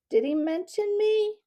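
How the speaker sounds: very high, loud rasping question; rasped. A narrator's reading. Owl asks the mouse after his old friend, rasping. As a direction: rasp it eagerly, rising sharply in pitch. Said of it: "he rasped".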